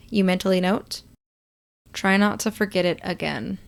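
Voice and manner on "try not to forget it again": a hint of a flat robot reply; lightly monotone robot. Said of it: "Moon replies in a monotone voice".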